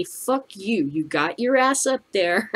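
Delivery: ordinary talk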